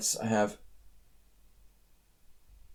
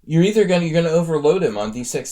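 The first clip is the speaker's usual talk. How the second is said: excited; 5 semitones higher, 7 dB louder, faster than usual. Real, not acted. Excited discovery of tactic.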